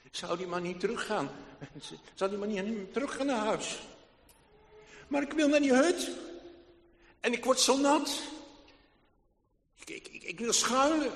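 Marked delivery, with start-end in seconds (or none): 5.1-11.1 put-on eager pleading boy. Boy pleads, wet in rain.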